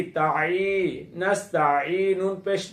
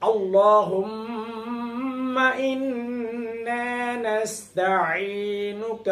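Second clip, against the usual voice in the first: very slow, melodic Arabic chant of the dua; slow Quran recitation; much slower than usual. Shown as a demonstration. Teacher reciting the dua for students, slow melodic chant. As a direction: draw each word out like tilawat.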